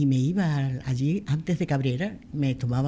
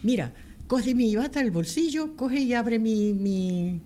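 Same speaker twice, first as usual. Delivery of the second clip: quoted surgeon in a rush, higher and urgent; doctor con prisa; 4 semitones higher than usual. Retold or imitated. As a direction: hurry her along like a busy surgeon on the phone. Doctor urgente por teléfono. (médico apurado pidiendo la radiografía)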